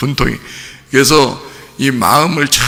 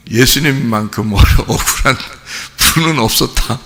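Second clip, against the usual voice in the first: consoling counselor. Retold or imitated. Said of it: "뭐라 그러냐면 이렇게 해요".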